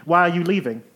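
fussy genteel lady. Acted. Eve again.

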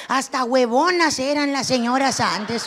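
ordinary talk, nothing marked

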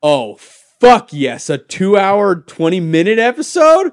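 loud, high mock-thrilled fan; hammed-up excitement. Acting out thrilled fans of long episodes.

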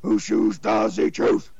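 slow growled nursery rhyme; harsh metal vocals. Retold or imitated. Imitating metal singers doing a nursery rhyme. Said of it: "harsh singers ... nursery rhymes".

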